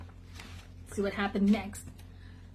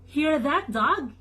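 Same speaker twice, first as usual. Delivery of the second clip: a farmer's call, moderately louder and higher; a storyteller's hearty farmer bellow; 4 semitones higher, 4 dB louder than usual. Acted. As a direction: call the dog across the farmyard. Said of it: "he bellowed".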